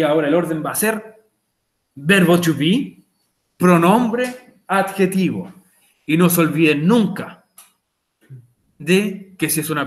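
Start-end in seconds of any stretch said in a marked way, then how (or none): 1.9-5.5 very slow, each word laid out: "verbo to be, pronombre adjetivo"; slow word-order demo. Shown as a demonstration. Teacher spelling out the question order for the class, slowly. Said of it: "Como pueden ver ahí".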